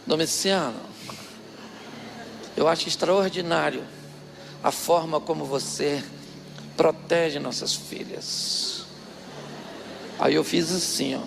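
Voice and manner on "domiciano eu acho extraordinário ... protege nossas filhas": mock soft, flattering wife; sweet-talking tone. Aunt sweet-talking her stern husband, a touch soft and slow. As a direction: coax him gently like a clever wife. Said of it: "o tom de voz da minha tia mudou".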